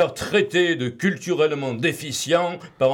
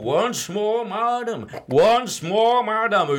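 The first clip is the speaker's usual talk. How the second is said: put-on Californian trainer accent, pitched up; 7 semitones higher than usual. Mocking the bodybuilder who smiles while the listener does sit-ups, imitating Brandon's fake Californian accent. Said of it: "avec son faux accent californien".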